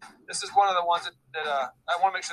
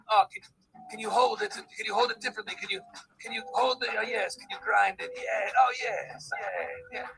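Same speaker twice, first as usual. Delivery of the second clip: breathy-edged, slightly raised artsy photographer purr; mock sexy talk; 3 semitones higher than usual. Photographer coaxing the shop owner, hammed-up sexy voice. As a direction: coo at the client like a seductive artist. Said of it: "the way I talk when I do my sexy talk".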